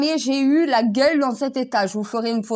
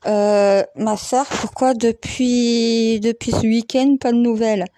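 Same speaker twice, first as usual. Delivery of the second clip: talking through a swollen lip; slower than usual. Real, not acted. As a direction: speak with a puffed-up split lip. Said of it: "la lèvre complètement gonflée, impossible de parler".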